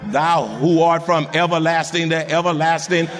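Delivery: mock formal prayer, droned low; long-winded prayer. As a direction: drone on like a showy, wordy pray-er. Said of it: "He didn't pray a long prayer".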